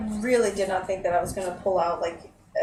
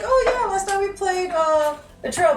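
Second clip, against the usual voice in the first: chat imitation; 9 semitones higher, 4 dB louder, slower than usual. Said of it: "somebody specifically mentioned about".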